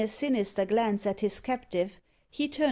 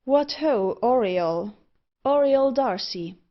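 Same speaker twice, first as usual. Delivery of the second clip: calling out; 3 semitones higher, 5 dB louder than usual. A narrator's reading. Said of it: "marched up the steps and cried".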